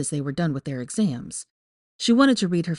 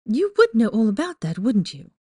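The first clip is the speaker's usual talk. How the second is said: higher, sharp angry retort; snapping; 5 semitones higher than usual. A narrator's reading. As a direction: snap it back, stung and biting. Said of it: "she snapped back".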